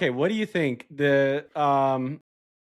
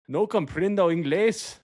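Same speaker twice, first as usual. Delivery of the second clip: higher-pitched attempt at a Russian accent; Russian-accented Spanish; 5 semitones higher than usual. Answering as the Soviet leader, attempted Russian accent in Spanish. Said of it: "a little bit of a Russian accent for Spanish".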